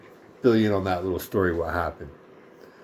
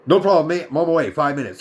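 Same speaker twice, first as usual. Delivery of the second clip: put-on British accent; 5 semitones higher, 5 dB louder, faster than usual. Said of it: "Welsh, or British".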